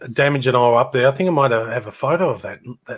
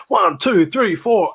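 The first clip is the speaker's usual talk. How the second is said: lively count-in, higher with falling swoops on each number; energetic, pitched-up count; fast-song count-in; 6 semitones higher, slower than usual. Shown as a demonstration. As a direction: count the band in with punch. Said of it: "if it was a fast song, going".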